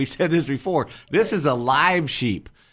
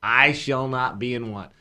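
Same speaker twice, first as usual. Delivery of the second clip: slow solemn quote; slower than usual. Acted. Quoting the psalm slowly.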